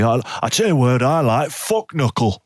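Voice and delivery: a hint of a broad Aussie bloke cursing cheerfully; Australian accent. English-visit story, swearing in mild Australian accent. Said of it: "if people say".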